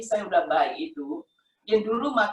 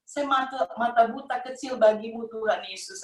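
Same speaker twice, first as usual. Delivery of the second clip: retold prayer in a raised pitch; calling on Jesus; 4 semitones higher than usual. Blinded woman calling to Jesus for healing, retold plea. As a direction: plead upward at normal volume. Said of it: "saya panggil".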